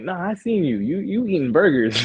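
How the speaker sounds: mock-insistent recognition, voice jumping high; insistent stranger. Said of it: "And they're like".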